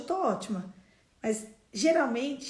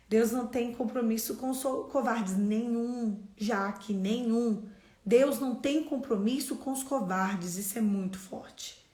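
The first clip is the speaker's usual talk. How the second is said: ordinary delivery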